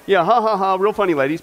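sarcastic fake laugh; dry ha ha, unamused; annoyed laugh. Mock laugh at a joke on men.

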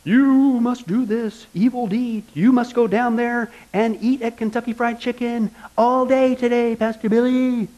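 a hint of a slow, spooky ghost, lightly voiced. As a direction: slowly intone it like a lightly acted ghost giving orders. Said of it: "and a ghost says".

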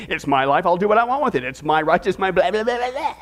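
lightly mocking selfish whine, tumbling into babble; mock self-centred rant. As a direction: rattle it off as a self-absorbed parody. Sarcastic misreading as selfish person.

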